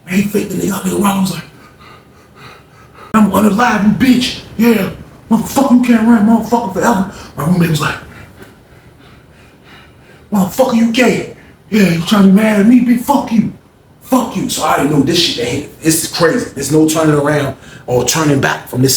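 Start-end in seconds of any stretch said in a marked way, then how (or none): 3.1-7.1 menacing threat. Retold or imitated. Rollo threatening while chasing. 10.3-14.5 defiant taunt. Retold or imitated. Roommate taunting back at attacker.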